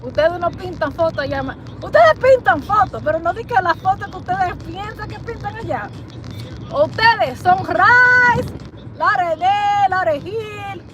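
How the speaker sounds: lightly put-on Spanish-accented English. Telling Jamaicans "I know you", light Spanish accent. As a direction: soften it with a hint of a Spanish accent.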